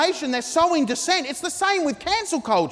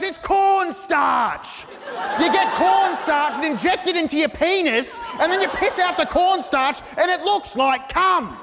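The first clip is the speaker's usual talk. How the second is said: mock shouting commenter; 3 semitones higher than usual. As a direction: bellow the cornstarch theory like a know-it-all.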